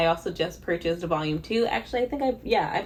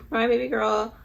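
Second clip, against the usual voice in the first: choked up over the dedication; tearful; 3 semitones higher than usual. Real, not acted. Reader moved to tears by the dedication, voice cracking. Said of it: "I'm not crying, you are".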